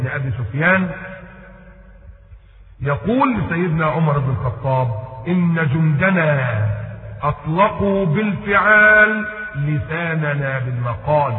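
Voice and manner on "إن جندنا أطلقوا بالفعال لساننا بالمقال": declaimed quote. Retold or imitated. Orator's line quoted in classical Arabic.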